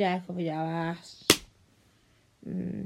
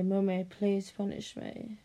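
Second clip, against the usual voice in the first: begging line. Shown as a demonstration.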